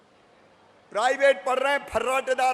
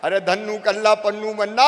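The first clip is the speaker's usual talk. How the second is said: calling out; 6 dB louder than usual. Real, not acted. Calling out villagers by name.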